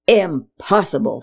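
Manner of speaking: yelled. Acted. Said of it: "Father yelled".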